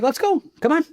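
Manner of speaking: high, pushed; mock-heated call to step out; taunting dare. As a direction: hold the door and goad him. Holding the door open, taunting.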